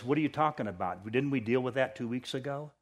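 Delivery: a soft, kind rebuke from God; gentle voice of God. Pretend. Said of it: "it's as though he says".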